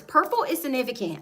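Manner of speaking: ordinary delivery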